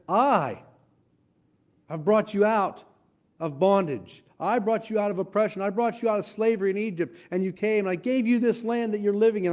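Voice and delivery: preacher voicing a stern God; God rebuking. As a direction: speak as God scolding his people. Voices God rebuking Israel.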